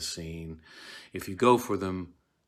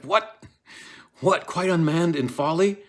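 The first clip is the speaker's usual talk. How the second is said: scornful rebuke; 10 semitones higher, 8 dB louder than usual. Acted. Lady Macbeth scolds her husband.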